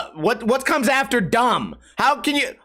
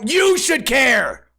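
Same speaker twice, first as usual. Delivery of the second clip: shouting; 3 semitones higher, much slower than usual. Real, not acted. Angry rant at commenters.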